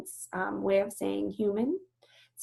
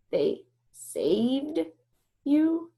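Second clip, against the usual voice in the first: disbelief; 6 semitones higher, much slower than usual. Acted. Bob repeating in disbelief.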